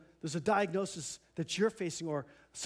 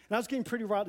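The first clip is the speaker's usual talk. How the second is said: getting riled; 4 semitones higher, much faster than usual. Real, not acted. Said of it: "You see, I'm getting riled".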